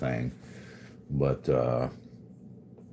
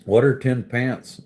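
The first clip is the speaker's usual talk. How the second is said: higher and louder, hammed-up disbelief; mock exasperated shout; 6 semitones higher, 6 dB louder than usual. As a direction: demand an answer in fake outrage. Mock outrage at a chat word.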